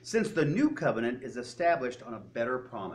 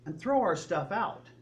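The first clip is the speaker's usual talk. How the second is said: higher-pitched indignant question after a long pause; confrontive; 4 semitones higher than usual. Retold or imitated. Temple crowd accusing Jesus of throwing their goods out, confrontive. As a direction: finish the accusation in disbelief. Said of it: "this is a confrontive thing".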